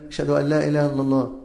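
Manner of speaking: quick "أشهد أن لا إله إلا الله" halting on الله; stopping at the end. Shown as a demonstration. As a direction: rattle it off and stop dead after الله. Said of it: "ويسكت".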